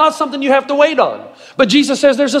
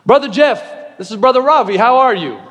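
imitated Indian accent, measured phone greeting; 2 semitones higher than usual. Indian caller greets the pastor once more, imitated Indian accent. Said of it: "that's a pretty good Indian accent".

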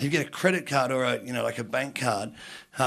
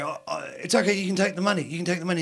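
mock frightened pleading; 4 semitones higher, faster than usual. Pleading with gang about to attack.

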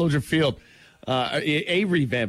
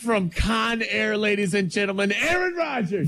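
co-host introducing Aaron Rodgers like a ring announcer; mock announcer; 5 semitones higher than usual. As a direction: present him like a boxing announcer.

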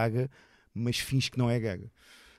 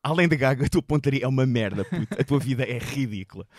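louder taunting comeback; mocking retort; 7 dB louder than usual. Comedian dodging the broom and taunting the boy loudly. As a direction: roast the kid from the stage, loud. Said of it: "eu assim, olha".

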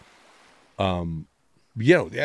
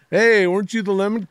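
much higher, louder starstruck fan call; excited fan; 10 semitones higher, 4 dB louder than usual. Pretend. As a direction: shout across the platform at a half-famous guy. Imagined fan at the subway.

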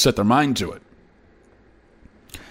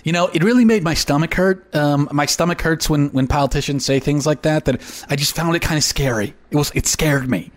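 lightly voiced nervous voter, mock discomfort; squeamish focus group member. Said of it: "And someone's like".

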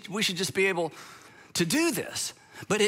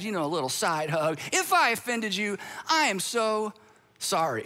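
mildly mock patronizing sorry, slowed in spots; condescending apology. Pastor mimicking a patronizing apology to someone offended. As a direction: talk down gently as if to a child. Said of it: "That's what that says".

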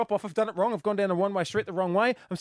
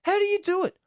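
higher, louder, amazed outburst; impassioned; 8 semitones higher, 5 dB louder than usual. Real, not acted. Dad telling mums listening how hard their job is, impassioned. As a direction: rave in disbelief at how mums cope.

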